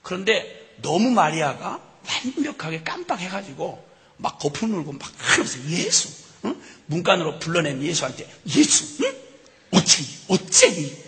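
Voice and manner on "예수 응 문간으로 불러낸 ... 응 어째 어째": mother scolding her son at the door. Acted. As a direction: scold the boy, pressing him. Mary scolding Jesus.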